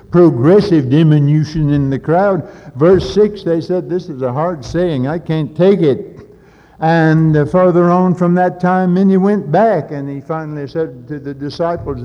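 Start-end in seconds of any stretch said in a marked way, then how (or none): 0.1-9.9 higher and louder, hammering each phrase; preaching at full force. Acted. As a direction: preach it out, rising. Preaching crescendo.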